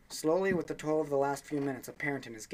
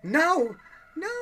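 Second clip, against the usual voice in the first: much higher, much louder, unhinged screaming; eerie scream; 12 dB louder than usual. Acted. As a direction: scream it like someone losing her mind. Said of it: "Suddenly Jun was screaming".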